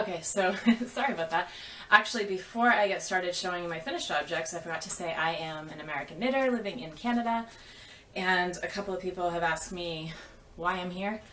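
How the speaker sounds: out of breath from running downstairs; a little winded, catching breath between words; gasping for air. Real, not acted. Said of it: "Sorry, I'm out of breath".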